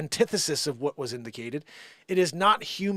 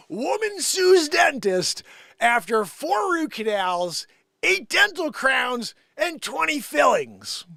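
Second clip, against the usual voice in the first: incredulous reread; 7 semitones higher, 5 dB louder, slower than usual. Shown as a demonstration. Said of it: "Let me read that again".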